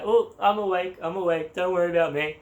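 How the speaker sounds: jolted awake, insisting I'm fine; startled awake. Retold or imitated. Dozing guest jolted by a pat on the back, startled and insisting. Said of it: "pat on the back".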